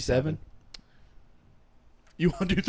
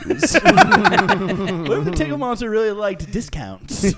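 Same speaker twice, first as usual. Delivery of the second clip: laughing mock pitch; 4 semitones higher, 6 dB louder, much slower than usual. Mocking silly pitch.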